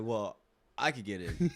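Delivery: slow, laughing imitation of a smug guy. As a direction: drawl it out while laughing, showing how cocky he was. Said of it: "almost reenact how this guy was".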